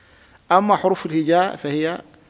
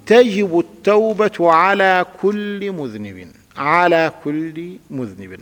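slow example sentence; 2 semitones higher, 5 dB louder, much slower than usual. Shown as a demonstration. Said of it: "نحو التوب".

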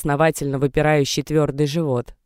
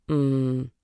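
displeased groan; 4 dB quieter than usual. Acted. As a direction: groan it, unwilling to wake. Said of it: "недовольно повернулась к ней Даша". (недовольное мычание тише обычного)

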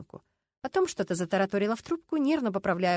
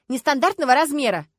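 indignant excuse; 6 semitones higher, 10 dB louder than usual. Acted. Люська's excuse, echoed by lieutenant.

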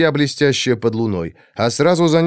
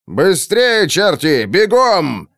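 raised, urgent shout; shouted order; 5 semitones higher, much slower than usual. A narrator's reading. Sergeants urging soldiers.

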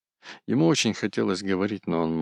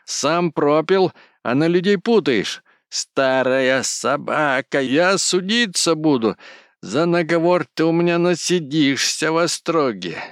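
higher, louder and more worked-up yelling; escalating shouting; 10 semitones higher, 6 dB louder than usual. A narrator's reading. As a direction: rave on, growing more agitated. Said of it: "всё более возбуждаясь".

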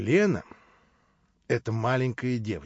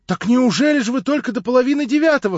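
timid plaintive voice; 13 semitones higher, 11 dB louder than usual. Acted. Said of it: "робким и жалобным голосом, чуть не плача".

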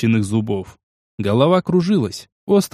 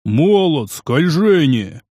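yelling; 2 semitones higher, much slower than usual. Acted. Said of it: "заорал толстяк".

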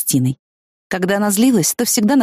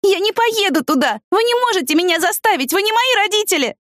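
put-on high-pitched defiant teenage girl; a narrator's high girl voice, protesting. A narrator's reading. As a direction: refuse them, voice pitched way up. Girl refuses to go to clinic.

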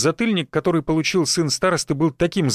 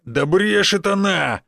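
barking son; 5 semitones higher, slower than usual. Acted. Second son barking that the girl lies, angry. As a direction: snap it out to shut her down. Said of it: "рявкнул второй сын".

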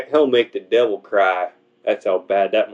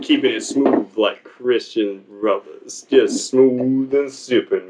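smooth slow voice; slower than usual. Acted. Echoing the smooth bit.

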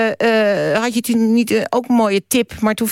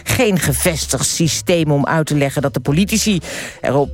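dramatic reading; 3 semitones lower than usual. Acted. Radio host reading a fragment to listeners, measured dramatic reading. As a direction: read it out with weighty, measured emphasis. Reads a written fragment on air.

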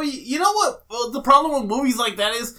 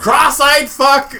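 drawn-out insult; 5 semitones higher, 8 dB louder, much slower than usual. Real, not acted. Insulting Bisping, slowed.

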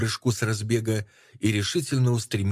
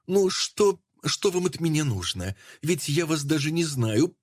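higher, sneering with false good nature; mocking familiar tone; 6 semitones higher than usual. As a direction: taunt her with smug familiarity. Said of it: "фамильярно-благодушные нотки".

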